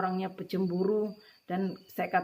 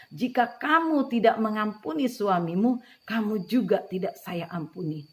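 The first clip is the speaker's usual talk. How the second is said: Holy Spirit's voice; 3 semitones higher, 5 dB louder than usual. Retold or imitated. The Holy Spirit warns her to forgive, loud and commanding. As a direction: ring it out as the Spirit's rebuke. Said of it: "Roh Kudus sampaikan firman itu kepada saya".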